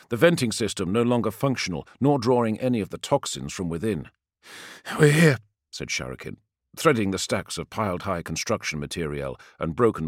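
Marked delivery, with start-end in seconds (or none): 5.0-5.4 calling out. Acted. Calling to comrades.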